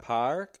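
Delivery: "Park" with too hard an R, questioning; overdone New York R. Shown as a demonstration. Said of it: "the R, that's too hard".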